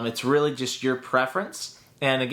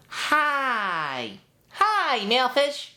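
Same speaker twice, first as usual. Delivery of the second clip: much higher cartoon sponge greeting; SpongeBob voice; 11 semitones higher, much slower than usual. Shown as a demonstration. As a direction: squeak it up high and bright. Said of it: "You're going up".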